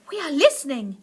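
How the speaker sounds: audience crying out eagerly; mock-excited crowd calling back. Witches answer their leader, excited cry. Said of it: "cried the audience".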